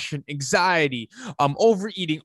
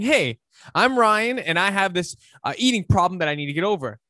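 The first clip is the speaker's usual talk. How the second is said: right way to say it; 3 semitones higher than usual. Shown as a demonstration. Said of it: "Instead of saying".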